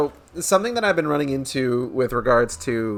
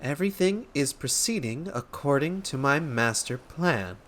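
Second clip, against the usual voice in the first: softer, measured repeat while writing; taking dictation; 7 dB quieter than usual. Acted. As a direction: spell it out word by word, as if noting it down. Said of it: "I was supposed to be taking this down".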